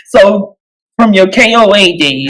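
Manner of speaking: garbled like a transformer; choppy robotic bad connection; voice cutting out. Real, not acted. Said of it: "it sounded like a transformer talking".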